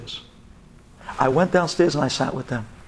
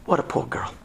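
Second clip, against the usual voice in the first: whispered lament; 4 semitones lower, 6 dB quieter than usual. Real, not acted. Repeated lament, first take whispered.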